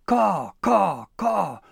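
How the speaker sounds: high, loud, squawking crow cries; crow cawing. Acted. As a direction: caw like a frantic crow. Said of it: "it shouted".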